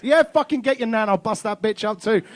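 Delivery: hammed-up rage at the kids; wild yell. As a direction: shout it like a crazed dad in a game. Dad raging in Laser Quest.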